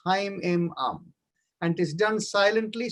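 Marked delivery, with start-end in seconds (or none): 0.1-1.1 vibrating mantra. Shown as a demonstration. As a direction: let Haim resonate out slow and strong. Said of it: "that vibration sounds".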